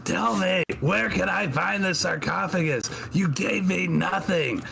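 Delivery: high, demanding yell. Acted. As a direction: shout your questions at the goddess, pitch way up. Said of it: "she's just yelling".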